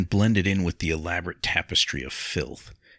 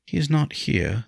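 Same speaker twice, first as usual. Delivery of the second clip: simple statement; 9 semitones higher than usual. A narrator's reading. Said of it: "Lindsay said simply".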